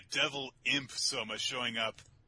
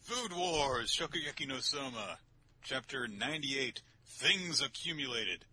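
higher announcer read; title announcement; 6 semitones higher than usual. Real, not acted. Host introducing the next manga chapter, announcer style.

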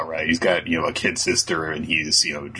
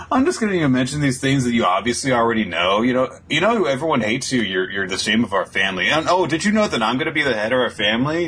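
lightly raised, fast smug taunting; smug brother; 5 semitones higher, faster than usual. Retold or imitated. Podcaster voicing Langris taunting Finral, lightly smug. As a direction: taunt him, acting like you don't care. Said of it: "very clearly like".

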